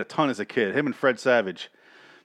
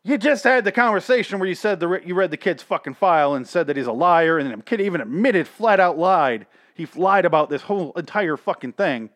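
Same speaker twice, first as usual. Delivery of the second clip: exasperated rant; 4 semitones higher, 4 dB louder than usual. Real, not acted. Ranting at the show's monsters.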